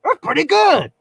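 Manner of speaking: imitating a pushy Philadelphia customer; Philly guy impression. Philadelphia man announcing to the crowded shop. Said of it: "and then was like".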